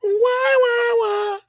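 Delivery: "Why" thrown up very high, again and again; insistent why. Real, not acted. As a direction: push each why up high, demanding an answer. Hammering home the big question.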